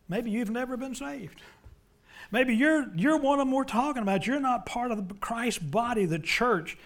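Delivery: loud, high-pitched challenge; forceful preaching. Real, not acted. Preacher confronts those who were never saved, forceful and loud. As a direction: drive it home from the pulpit.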